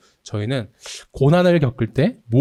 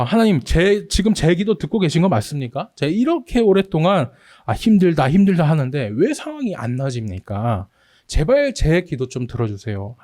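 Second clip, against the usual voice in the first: crying out; 4 semitones higher than usual. Retold or imitated. Psalmist frustrated by unanswered prayer, crying out. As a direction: cry out to God in frustration. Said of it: "부르짖는 것이".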